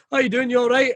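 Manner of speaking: lightly mimicked corridor small talk; passing greeting. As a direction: toss out a casual greeting in passing. Acting a passing early-morning greeting.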